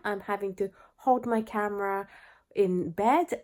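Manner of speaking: stuffy nose from the flu; slightly blocked-up nasal voice. Real, not acted. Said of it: "my little bit nasally voice".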